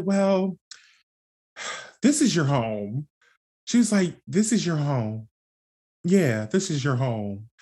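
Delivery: mild imitation of a bewildered mother reassuring; a hint of a confused mom's voice; flustered mom. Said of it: "like, the accent".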